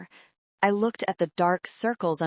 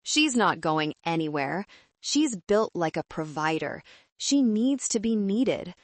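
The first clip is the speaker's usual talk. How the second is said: smug smile. Acted. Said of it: "I could hear the smile in his voice".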